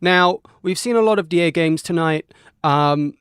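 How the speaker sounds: loud, excited broadcast voice; lightly hammed-up sports commentator. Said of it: "I'm gonna stop talking like a sports commentator".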